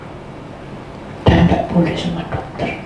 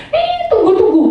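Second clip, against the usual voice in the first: calling out to birds; 14 semitones higher, 4 dB louder than usual. Retold or imitated.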